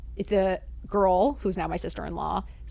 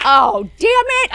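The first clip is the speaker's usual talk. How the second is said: louder, slow drawn-out groan of a curse; mock despair; 4 semitones higher, 12 dB louder, slower than usual. Stuck with her date at the party, louder slow mock despair. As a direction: stretch out the frustration, hammed-up.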